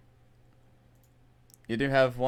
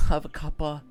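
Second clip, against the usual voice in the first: mock British; 5 semitones higher than usual. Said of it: "they've become British".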